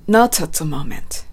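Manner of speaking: "Not at" linked like "no-tsat", slowly; slow model phrase, hard T joining "Not at"; linked, strong T. Shown as a demonstration. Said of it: "not atと発音しましょ". (「Not at」のTを強くつなげて、ゆっくり)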